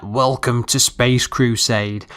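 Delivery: slow announcer line, lightly done; game Marine voice. Retold or imitated. Reviewer quotes the game's opening Marine, slow and lightly imitated. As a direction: imitate the intro voice, slowed right down. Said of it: "it sounds like a Marine speaking".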